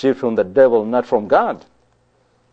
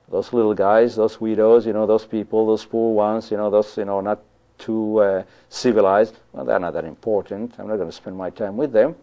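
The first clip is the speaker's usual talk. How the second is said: dismissive. Acted. Voicing someone who dismisses poor ones.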